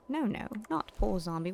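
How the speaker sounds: usual speaking voice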